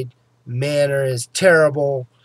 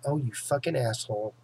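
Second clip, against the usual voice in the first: muttered curse; 3 semitones lower, 9 dB quieter than usual. Retold or imitated. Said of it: "I'm going like".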